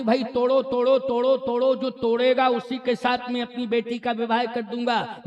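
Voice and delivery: a hint of a proclaiming king; king's urging. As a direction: urge the crowd on in rapid repeats. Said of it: "Janak ji ने कहा".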